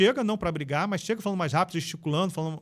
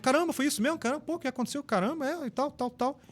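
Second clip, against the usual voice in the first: higher-pitched concern without shouting; animated rapport; 7 semitones higher than usual. Shown as a demonstration. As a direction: mirror their agitation, keeping volume down. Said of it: "falar um pouco mais rápido". (espanto empático, agudo, sem gritar)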